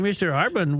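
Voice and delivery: put-on Mexican accent. Prank caller addressing the columnist in a mock Mexican accent. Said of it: "doing an accent like this".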